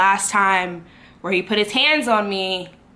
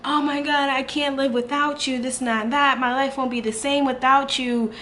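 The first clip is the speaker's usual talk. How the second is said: mock crying plea; 6 semitones higher than usual. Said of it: "crying out".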